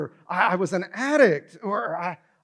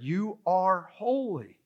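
softer, slow, tender pronouncement; slow, soft declaration; 5 dB quieter, much slower than usual. Retold or imitated. Jesus declaring believers holy, gentle slow pronouncement. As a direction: bestow it gently and slowly. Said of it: "Jesus has declared".

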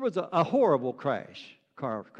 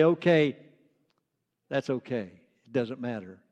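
casual dismissal; 6 semitones lower than usual. Acted. Someone brushing off the journey, casual and dismissive. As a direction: shrug it off as unimportant. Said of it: "casually or should casually or haphazardly".

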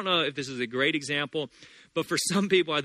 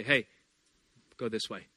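soft, hushed voice from behind; a soft nudging inner voice; 5 semitones lower, 7 dB quieter than usual. Retold or imitated. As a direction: coax gently like a quiet guide. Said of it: "a little voice behind you say".

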